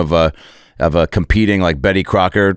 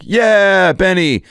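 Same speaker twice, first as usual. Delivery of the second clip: put-on higher eager kid voices; kids cheering; 11 semitones higher, much slower than usual. The kids cheering Benny on, eager higher voices. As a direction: cheer him on like awed kids. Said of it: "Everyone's like".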